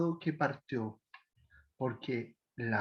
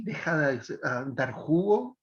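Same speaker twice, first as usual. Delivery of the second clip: sarcastic; 3 semitones lower than usual. Shown as a demonstration. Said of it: "en ese tono".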